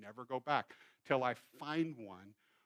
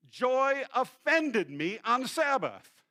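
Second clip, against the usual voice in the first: higher, slow, loud complaint; upset caller; 9 semitones higher, 9 dB louder, much slower than usual. Retold or imitated. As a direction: drag out the grievance. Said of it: "I just wanted you to know that Joy".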